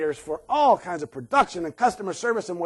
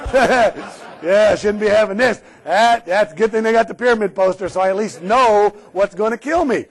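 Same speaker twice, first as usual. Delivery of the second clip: sarcastic, laughing; 5 dB louder than usual. Pretend. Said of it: "I apologize for my sarcasm".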